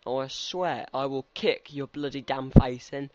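loud, indignant telling-off; mock threat. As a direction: play at losing your temper. Threatens game character over an insult.

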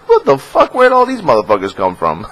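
high, loud startled outburst; mock shock. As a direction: yelp it in fake disbelief. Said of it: "and I'm like".

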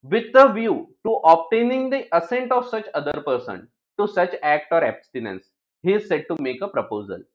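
reading the law text slowly, word by word; slow definition read. Acted. Teacher reading the proposal definition to students, slow and deliberate. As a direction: spell out each phrase of the definition deliberately.

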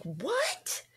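a breathless whispered "What?"; stunned whisper. Retold or imitated. Mother hearing her son's bad news, whispering in shock. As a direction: let the word come out as a shocked whisper. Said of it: "I'm like".

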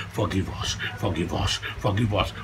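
low, soft repeated plea; hushed pleading. Acted. Man begging God's forgiveness, hushed pleading. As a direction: drop low and softly beg.

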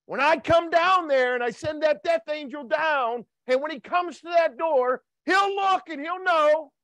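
a hint of a booming divine command; voice of God. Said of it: "He said".

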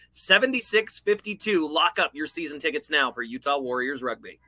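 smooth promotional ticket read. Acted. Co-host plugging rugby season tickets to listeners, promotional ad read.

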